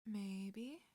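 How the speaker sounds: quiet, hesitant admission; cautious. Acted. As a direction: admit it warily after a pause. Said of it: "cautiously after a beat".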